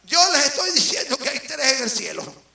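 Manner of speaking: forceful preaching. Real, not acted. Preacher declaring three in heaven to the congregation, forceful preaching.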